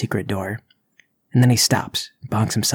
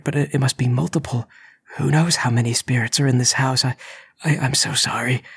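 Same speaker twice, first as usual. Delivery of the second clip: frightened pleading; 3 semitones higher than usual. Acted. Intruder pleading with spirits.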